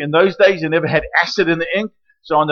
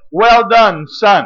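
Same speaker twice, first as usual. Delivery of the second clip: Father's praise; 3 semitones higher, 6 dB louder, much slower than usual. Acted.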